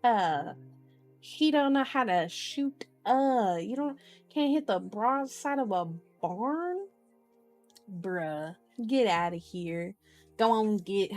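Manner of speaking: playful country-style trash talk; mock Texan scorn. Reader mocking a character who can't shoot, mock Texan scorn.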